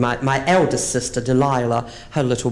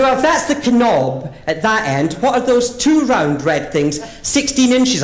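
higher, slow, innocent asking; naive question; 9 semitones higher, 4 dB louder, slower than usual. Retold or imitated. Friend asking innocently, high and slow. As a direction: ask it wide-eyed.

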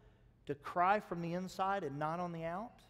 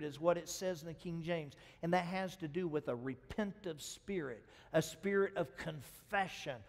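normal talking voice

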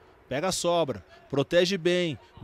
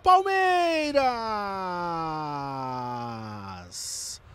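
explosive goal commentary; 11 semitones higher, 5 dB louder, much slower than usual. Real, not acted. Goal call.

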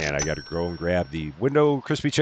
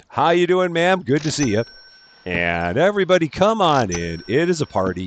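louder and higher, a bright welcoming shout to a guest; cheery host greeting; 7 semitones higher, 3 dB louder than usual. Pretend. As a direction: play the eager club owner greeting a customer.

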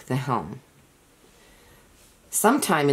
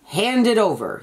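roaring; 7 semitones higher than usual. A narrator's reading. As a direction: bellow it at the boy. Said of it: "he roared".

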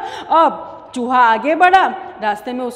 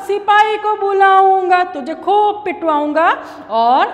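a hint of a cocky threat; mouse's threat; 3 semitones higher than usual. Mouse threatens the embroiderer, lightly cocky. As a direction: brag you'll have him beaten. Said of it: "फिर से ये धमकाने लगा".

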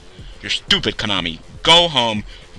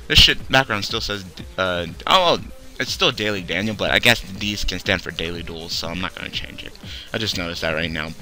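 tired mumble; 8 semitones lower, 7 dB quieter than usual. Real, not acted. Tired low aside.

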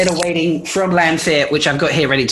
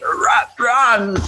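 higher, put-on narrator impression; hammed-up imitation with a raised pitch; Michael Kramer; 7 semitones higher than usual. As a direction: attempt an audiobook-style character voice, badly. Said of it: "channel a little bit of Michael Kramer".

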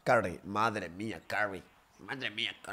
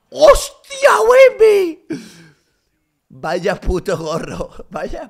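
much higher, louder yell, then laughing; yelling in awe at the block; ecstatic shout; 12 semitones higher, 17 dB louder, much slower than usual. Real, not acted. Another huge block. (grito eufórico con risa)

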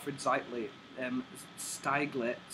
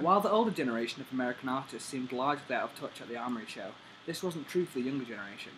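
formal reading aloud; 3 dB louder than usual. Acted. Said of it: "he never reads this fast".

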